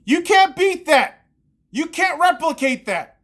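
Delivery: loud, slow exasperated rant; frustrated outburst. Real, not acted. Fan ranting alone to his camera, loud and exasperated. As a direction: let it burst out in disgust. Ranting about Lakers loss.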